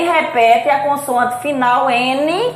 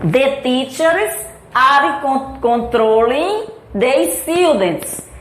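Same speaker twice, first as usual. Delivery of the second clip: slow model sentence; slower than usual. Shown as a demonstration. Teacher gives students an example sentence, slowly. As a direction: read out slowly and carefully.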